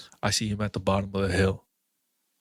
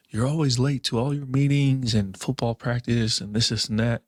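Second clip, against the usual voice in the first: mildly exasperated, slightly raised pitch; lightly voiced nagging complaint; complaining mom; 4 semitones higher than usual. Mom complaining about little brother being late, mildly exasperated. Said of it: "my mom was always complaining about".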